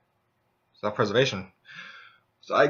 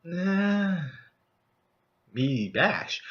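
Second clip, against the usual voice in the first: dumb barbarian; 5 semitones higher, 4 dB quieter, much slower than usual. Retold or imitated. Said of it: "the barbarian itself was like".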